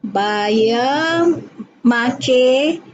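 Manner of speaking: put-on reading in a Kelantan accent; Kelantan dialect. Sarawak student reading for the ustaz, light Kelantan accent. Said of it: "dalam dialek Kelantan".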